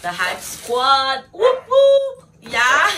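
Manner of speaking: shouting out the Hype Squad with a big whoop. Real, not acted. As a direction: cheer for the crew. Hyping her friend group.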